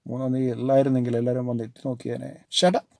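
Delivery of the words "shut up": loud, high shout back; roar. Acted. Ajit roaring back at Nomita, loud. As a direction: fling the words back at her. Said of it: "Ajith റോഴ്സ്".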